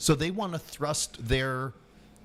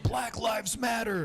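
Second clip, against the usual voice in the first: higher, slow sneering parody of a chant; mocking slogan; 9 semitones higher than usual. Mocking the protesters he complains about, slow and high.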